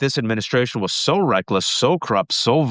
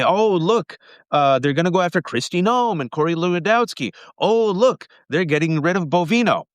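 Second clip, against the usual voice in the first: higher, bright-eyed mock cheer; mock optimism; 6 semitones higher than usual. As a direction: parody naive hopeful people. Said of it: "you heard people say".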